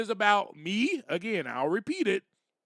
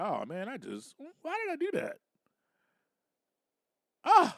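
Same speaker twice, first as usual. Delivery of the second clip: hushed mock regret; quiet self-reproach; 4 semitones higher, 5 dB quieter than usual. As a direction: sigh it to yourself, ashamed. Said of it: "Be like".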